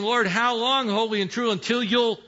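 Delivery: urgent high-pitched cry to heaven. Acted. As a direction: call out to the Lord, drawing out the final words. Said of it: "crying out with a loud voice".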